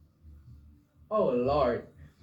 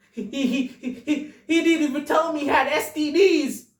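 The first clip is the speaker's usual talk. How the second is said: hammed-up distraught wife, stammering; mock sobbing; 4 semitones higher than usual. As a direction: whimper the complaints, voice climbing as it goes. Acts distraught woman listing husband's wrongs.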